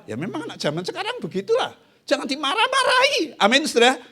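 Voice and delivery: high, laughing through the words. Real, not acted. Preacher laughs with the church about today's youth.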